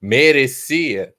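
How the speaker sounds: loud, very slow, doubtful question. Acted. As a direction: ask it big, like you doubt it. Poses a rhetorical question.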